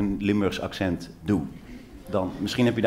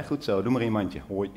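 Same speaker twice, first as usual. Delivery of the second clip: cooing mother; 4 dB quieter than usual. Retold or imitated. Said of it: "Zij deed dit".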